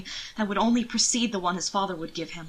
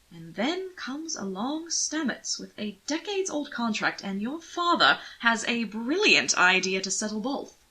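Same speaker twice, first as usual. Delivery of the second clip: higher and slow, wry; amused irony; 4 semitones higher than usual. Acted. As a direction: relish the scheme mildly. Anthony amused at the scheme.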